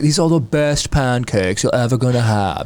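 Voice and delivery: badly faked Australian accent; attempted Australian accent. Quoting an Australian recipe woman, bad Australian accent. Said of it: "woman from Australia".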